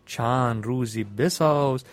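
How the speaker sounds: measured, rhythmic reading of Persian epic verse; epic verse recitation. Acted. Storyteller reciting the epic's couplets to his listeners, rhythmic. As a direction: chant the couplets with a steady beat.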